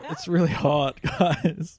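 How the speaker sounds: real laugh through the words; laughing complaint. Real, not acted. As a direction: complain while giggling. Laughing complaint about heat.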